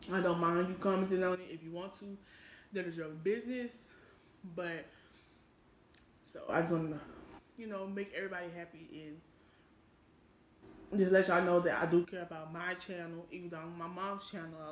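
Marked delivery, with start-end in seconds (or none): 0.1-9.1 eating between sentences; chewing while talking. Real, not acted. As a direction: mouth partly full. Seen 2: Cheeks bulge, lips pressed between words; food wrapper on lap.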